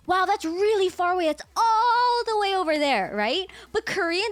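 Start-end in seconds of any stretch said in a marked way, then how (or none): 0.1-3.1 plain English far away. Retold or imitated. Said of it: "you go".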